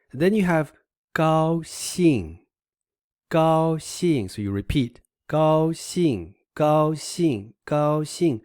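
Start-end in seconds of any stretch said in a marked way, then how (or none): 1.1-4.3 高 high and level, 兴 falling sharply; first then fourth tone. Shown as a demonstration. Teacher has learners repeat the word, high-then-falling 高兴. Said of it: "Oh, this is B go". 5.3-8.4 高 high and level, 兴 falling sharply; first then fourth tone. Shown as a demonstration. Teacher has learners repeat the word, high-then-falling 高兴. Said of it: "Oh, this is B go".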